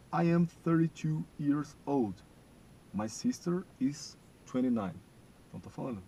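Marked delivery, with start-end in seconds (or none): 0.1-5.0 slow, louder and higher English read; slow model sentence. Shown as a demonstration. Teacher reading a sentence for students to repeat, very slow. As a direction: stretch out every word for repetition. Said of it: "vocês vão repetir o modo como eu falo".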